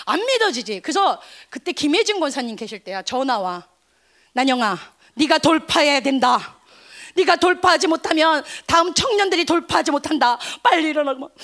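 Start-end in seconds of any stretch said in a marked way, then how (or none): 4.3-11.2 mildly raised, insistent exhortation; acted pep talk; imitated urging. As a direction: play an elder firmly pushing someone on. Elder urges her to get up.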